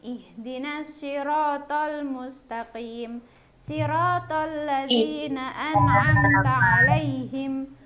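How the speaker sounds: slow measured Quran recitation. Acted. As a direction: recite slowly in a chant. Teacher recites prayer for class.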